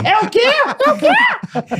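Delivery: mock squeaky, very high voice; voice thinning out. Shown as a demonstration. Showing friends how her voice changes, put-on high voice. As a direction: send the voice shooting up in playful disbelief. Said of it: "a voz dela engrossa e afina ao mesmo tempo".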